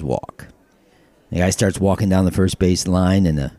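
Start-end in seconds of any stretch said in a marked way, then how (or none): 0.0-0.5 umpire call. Acted.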